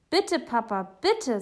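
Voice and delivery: high, loud begging; pleading. Acted. Boy begging Papa for the trip, pleading high. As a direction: beg urgently like a child. Boy begs his father.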